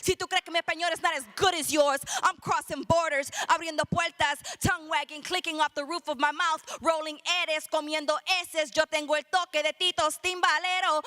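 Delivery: rhythmic, driving slam poetry delivery; spoken word poem. Acted. Poet defending their Puerto Rican speech, rhythmic slam delivery. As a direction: punch out the syllables in a steady beat.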